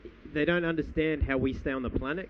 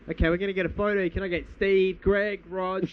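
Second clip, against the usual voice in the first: imitating Tony Abbott; 4 semitones higher, 3 dB louder than usual. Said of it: "he's calling out".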